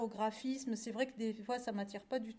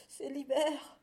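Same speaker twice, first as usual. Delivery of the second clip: acted shiver with a shuddering breath before it; shivering cow; 3 semitones higher, slower than usual. A narrator's reading. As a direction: say it as if chilled through. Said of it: "grelotta la pauvre vache". (vache qui grelotte)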